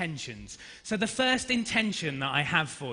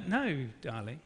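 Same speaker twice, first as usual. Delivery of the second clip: gentle refusal; 4 semitones lower, 8 dB quieter than usual. Retold or imitated. Father refusing child in acted exchange.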